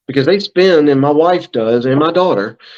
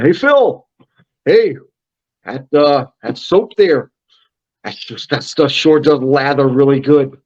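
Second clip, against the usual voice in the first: Rick White. Acted. Founder mimics a customer calling to praise the soap, affectionate impersonation. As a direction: imitate an Iowa acquaintance phoning in his praise. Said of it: "I do a really good Rick White impersonation".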